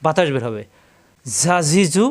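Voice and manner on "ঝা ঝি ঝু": "ঝা ঝি ঝু" with a whistling, buzzing z; "ঝা ঝি ঝু" as a sibilant z, air escaping. Shown as a demonstration. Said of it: "শীষ দিয়ে উচ্চারণ করতে হবে".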